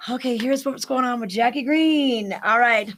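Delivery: breathless, words pushed out between breaths. Real, not acted. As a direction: talk while catching your breath. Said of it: "I'm out of breath here".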